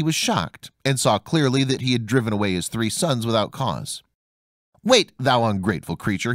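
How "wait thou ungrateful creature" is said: angry cry. Acted. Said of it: "he cried".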